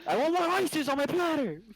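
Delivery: mock pirate captain. Joining the pirate game, mock captain. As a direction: play the captain on deck.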